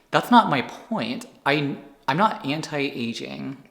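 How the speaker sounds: emphatic, drawn-out objection; getting heated. Real, not acted. Vlogger answering critics of anti-aging, getting heated. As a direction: push back firmly, stretching the words. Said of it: "I'm not gonna get heated on this".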